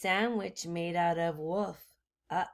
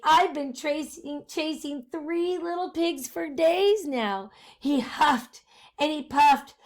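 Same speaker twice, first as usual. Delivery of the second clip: starving wolf; 4 semitones higher, 4 dB louder than usual. Acted.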